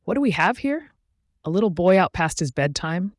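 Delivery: high sly mischievous imp voice; taunting imp. A narrator's reading.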